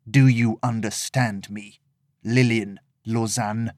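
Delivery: cold, calm threat; calm menacing villain. Acted. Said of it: "His voice was calm".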